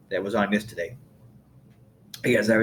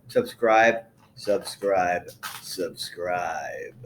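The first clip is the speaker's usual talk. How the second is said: sinking repeated plea; 4 semitones lower, much slower than usual. Real, not acted. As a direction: step the voice down with every repeat. Repeats plea, sinking lower each time.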